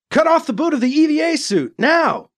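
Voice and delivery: high, urgent yelled order; yelling. A narrator's reading. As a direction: yell a desperate command. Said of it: "Alibi yelled at the Cat Man".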